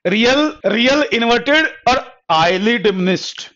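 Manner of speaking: slow, word by word for writing; teacher dictating notes to the class, slowly; slow dictation. Shown as a demonstration. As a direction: let them write each word down. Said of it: "लिखो".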